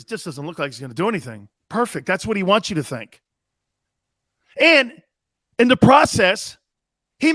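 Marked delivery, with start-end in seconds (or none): 0.0-1.5 mock Xander quote. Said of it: "Xander goes".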